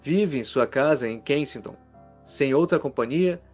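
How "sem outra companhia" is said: ordinary delivery, nothing marked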